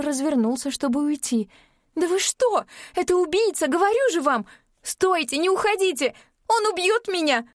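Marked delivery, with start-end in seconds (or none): 1.9-7.5 desperate pleading shout. A narrator's reading. Begging fleeing rescuers.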